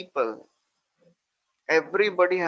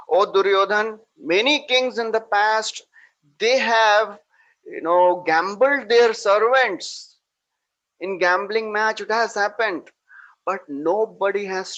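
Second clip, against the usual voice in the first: raised, heated protest, louder and higher; indignant raised voice, not yet full fury; angry outburst; 4 semitones higher, 5 dB louder than usual. Retold or imitated. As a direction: Bhima pleading in rising anger. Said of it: "He becomes so very angry".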